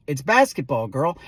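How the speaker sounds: low, dry correction; deadpan. Acted. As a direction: shut the argument down in a low voice.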